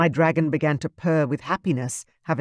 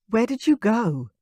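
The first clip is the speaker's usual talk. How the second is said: put-on young woman's voice; 7 semitones higher than usual. Tearful girlfriend asks worriedly.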